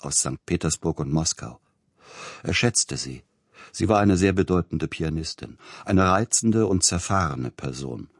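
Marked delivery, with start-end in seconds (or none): none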